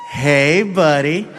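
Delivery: put-on coaxing baby-talk to a drunk friend; talking to a toddler. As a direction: coax him like a two-year-old. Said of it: "He talks to me like I'm two".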